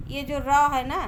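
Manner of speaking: loud, stressed रा. Shown as a demonstration. Teacher demonstrating रा to the class, loud. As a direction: hit the रा firmly. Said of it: "इस तरीके से बोल".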